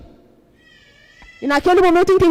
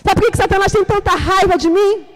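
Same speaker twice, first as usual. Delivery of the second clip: ordinary delivery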